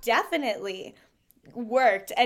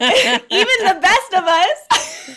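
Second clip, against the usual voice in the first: laughing; 7 semitones higher, 12 dB louder, slower than usual. Real, not acted. Laughing at the punchline.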